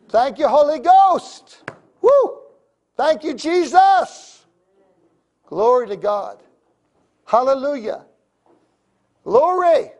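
loud, high, slow ecstatic praise; roaring rallying speech. Real, not acted. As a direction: shout thanks to heaven.

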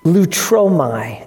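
"lutromai" said slowly, syllables drawn out; Greek word pronounced. Shown as a demonstration. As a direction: say "lutromai" slowly as loo-tro-my, pitch falling at the end. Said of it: "a Greek word that's pronounced".

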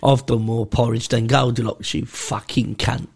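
low, growled mock hard-man threat, slow at the end; hard man prisoner. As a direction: play a lightly voiced tough old convict. Imitating Charles Bronson hard man.

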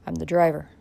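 coolly. Acted. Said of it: "replied Dick coolly".

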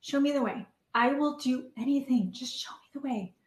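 hushed, half-whispered pleading to God; retold whispered prayer. Sobbing in her car, a whispered prayer to God. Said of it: "and I'm sobbing".

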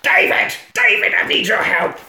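urgent shouted plea for help; calling out. Retold or imitated. Police chief calling David for help, urgent shout. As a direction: call out to David, desperate.

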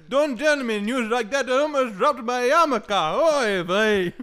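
put-on high, slow nagging old Jewish parent; old Jewish man voice. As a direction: scold Benjamin like an old Jewish elder. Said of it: "old man Jewish voice".

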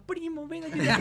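hammed-up cry for help, high; mock yell for help. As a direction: call for the cousin in a mock panic. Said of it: "y grita".

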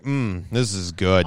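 slow, savouring mock approval; mock relish. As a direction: savour it slowly, tongue in cheek.

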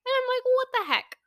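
high, loud disbelieving squawk; shocked. Retold or imitated. Baffled driver yelling at her phone, loud disbelief. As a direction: blurt it out in shock.

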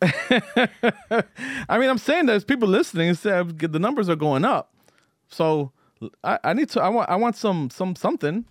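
high pleading whine; begging. Real, not acted. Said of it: "I'm begging".

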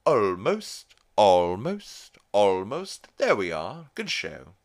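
loud, swooping British gent; mock British accent. Cutaway to a British porn thing, hammed-up British voice. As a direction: draw out each word in a hammed-up British accent. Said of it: "a cutaway to a British porn thing".

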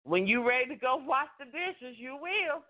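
a touch of unimpressed mate; sarcastic partner. Retold or imitated. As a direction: brush it off with sarcasm. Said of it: "They looking at you like".

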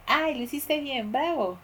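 mock praise. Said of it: "yo un día les dije".

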